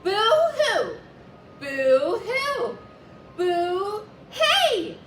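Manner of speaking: loud, high angry shout; a furious ghost shouting boo. A narrator's reading. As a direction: yell it to scare him off. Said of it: "he shouted".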